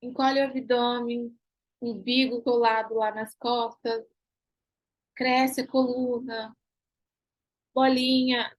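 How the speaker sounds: slow, by-the-book instructor cues; slow textbook Pilates commands; recipe-style cues. Shown as a demonstration. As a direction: recite the stock cues slowly. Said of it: "daquela receita de bolo".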